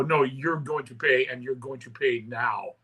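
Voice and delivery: retold standoff with the club owner, quiet and slow; firm demand. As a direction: lay down the law slowly and quietly.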